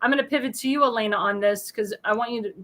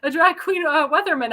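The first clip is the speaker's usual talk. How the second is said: son's voice; 5 semitones higher than usual. Retold or imitated. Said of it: "Ryan, you know, says".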